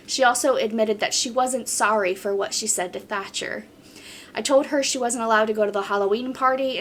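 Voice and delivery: even, flowing reading of a post; story read-aloud. Acted. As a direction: read the account straight through, steadily. Reads a submitted story aloud.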